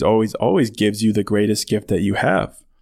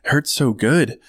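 blissful mock moan; 5 semitones higher than usual. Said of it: "You're like".

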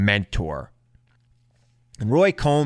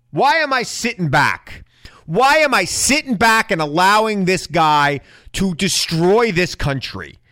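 indignant; 5 semitones higher than usual. Real, not acted. Indignant rhetorical questions.

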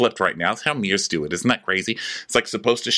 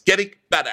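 "Getting better" pitched up like a quote; air quotes; 5 semitones higher, faster than usual. Acted. Mocking someone's phrase, "Getting better" in quote marks. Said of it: "I'm, I'm doing air quotes".

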